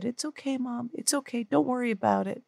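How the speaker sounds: imitating a child's soft comforting. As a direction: gently reassure mom, hushed. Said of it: "And very softly, he said".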